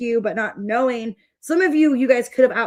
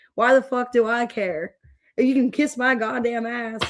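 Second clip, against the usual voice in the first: careless, defiant rant, tossed off as if nothing matters. Describing a careless vibe, imitating Gallagher from Shameless. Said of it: "the guy off of Shameless where he's like".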